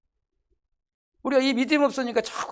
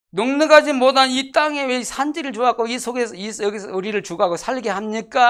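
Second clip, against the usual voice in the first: raised, louder imitation of complainers; retold grumbling protest; 4 semitones higher, 5 dB louder than usual. Preacher voices Joseph's descendants resenting the hill country, complaining. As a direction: push it out as an indignant mock grievance. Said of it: "불평, 원망했다는 거야".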